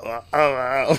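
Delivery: mock gargling noises; imitated gargling. Podcaster imitates Lex after she coughs, mock gargling. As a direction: imitate a gargle on open vowels. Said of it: "like, gargling noises".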